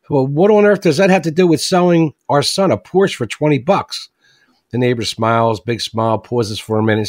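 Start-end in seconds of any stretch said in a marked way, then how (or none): 0.1-4.1 indignant father. Retold or imitated. Joke teller voicing the father confronting the neighbor. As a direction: demand it in disbelief.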